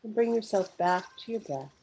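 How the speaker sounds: unhurried meditation guide, long pauses between phrases; guided meditation. Real, not acted. Guide leading live listeners through a mindful pause, guided meditation. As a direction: guide listeners gently inward, phrase by phrase, leaving space to breathe.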